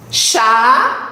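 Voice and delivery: "Chaveiro" with long pauses, CHA... VEI... RO; syllable by syllable. Shown as a demonstration. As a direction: isolate each syllable of "Chaveiro". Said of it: "palavras com quantidades de sílabas diferentes". ("Chaveiro" com pausas longas: cha... vei... ro)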